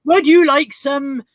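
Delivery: slow, hammed-up rural farmer accent; mock farmer accent. Host playing farmer for her co-host, slow mock farmer accent. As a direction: draw it out in a put-on farmer's accent. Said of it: "I'm not really a farmer".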